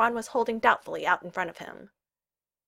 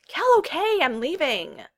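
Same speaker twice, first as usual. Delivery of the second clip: high, loud hurried surrender; protesting retreat; 9 semitones higher, 5 dB louder, slower than usual. Acted. Friend dodges boots on his way out, protesting. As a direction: give in under attack. Fleeing a thrown boot.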